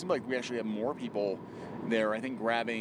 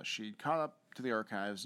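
normal talking voice

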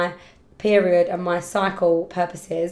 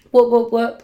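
cheering; 3 semitones higher, 8 dB louder than usual. Real, not acted. Celebrating Dublin trip.

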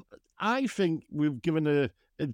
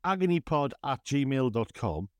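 radio voice; slower than usual. Shown as a demonstration. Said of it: "I'm practicing using my radio voice".

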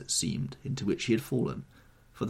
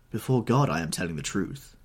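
higher, louder solemn oath; earnest cry; 6 semitones higher, 4 dB louder than usual. Acted. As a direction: swear it fervently. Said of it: "she cried".

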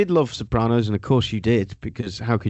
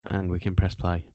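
passive aggressive. Retold or imitated. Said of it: "the passive aggressive pause".

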